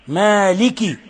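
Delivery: MALIKI with a clean, full i; pure kasra. Shown as a demonstration. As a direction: say مالك with the final kasra fully sounded. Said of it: "أخلص الكسر".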